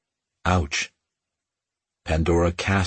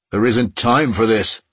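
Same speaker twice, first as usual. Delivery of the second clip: called out louder across the distance; calling out; 4 semitones higher, 4 dB louder than usual. Acted. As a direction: call it out after her. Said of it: "Puck called".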